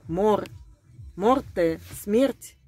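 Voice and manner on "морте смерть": ordinary talk, nothing marked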